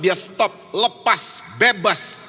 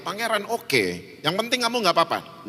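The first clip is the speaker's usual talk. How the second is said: gentle reassurance; 3 semitones higher, 4 dB quieter than usual. Retold or imitated. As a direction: soothe a scared little boy. Father calms frightened son. (ayah menenangkan anaknya dengan lembut)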